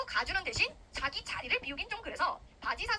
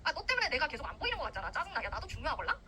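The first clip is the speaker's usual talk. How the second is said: mock annoyed. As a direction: grumble like a put-upon, jealous rival. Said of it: "하면서 얘가 막 화내".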